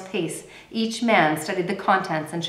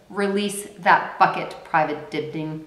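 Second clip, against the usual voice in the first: ordered. Acted. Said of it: "he ordered".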